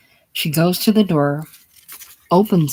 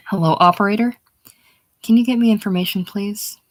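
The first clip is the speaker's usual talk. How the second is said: higher, louder phone call to the operator; 5 semitones higher, 4 dB louder than usual. Acted. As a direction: raise the voice down a phone line.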